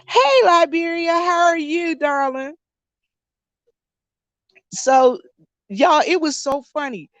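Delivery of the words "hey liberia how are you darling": greeting a viewer. Real, not acted. Greets a viewer mid-story.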